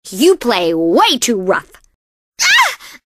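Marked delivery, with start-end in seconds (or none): 2.4-3.0 high sharp cry of pain; sudden hurt shriek; pained yelp. Acted. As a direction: yelp as if struck.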